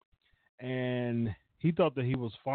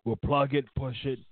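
lightly voiced boss making a pitch; a hint of a promoter imitation; Vince; 3 semitones lower than usual. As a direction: pitch the deal in a slightly lowered boss voice. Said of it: "Vince goes".

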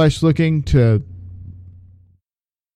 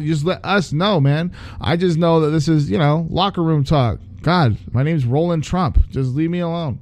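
higher, soothing, awkward mock cop; nervous cop voice; 4 semitones higher than usual. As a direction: play a jittery cop talking him down. Cops calming a raving man.

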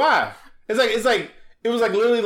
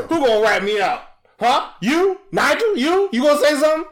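pitched way up and louder, daring each one to snitch; high mock tough cicada; 9 semitones higher, 4 dB louder than usual. Cicada daring the other bugs to snitch, high squeaky mock threat. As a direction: squeak out a tough-guy challenge, climbing higher.

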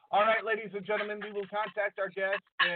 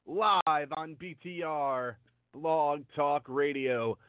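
underwater; 2 semitones lower than usual. Real, not acted. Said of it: "Sean, you sound like you're underwater".

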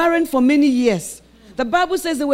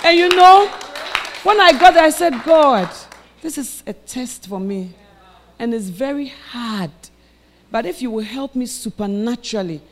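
preaching then praying; 4 dB louder than usual. Acted. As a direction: build up, then drop to a humble prayer. Preaching and prayer.

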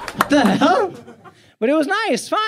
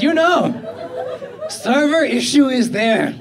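slowly, "server issue is there" with Indian tech-support lilt; Indian English tech support; 4 semitones higher, 4 dB louder than usual. Retold or imitated. Comedian mocking the classic support excuse, slow Indian English lilt. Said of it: "A way of life in our country".

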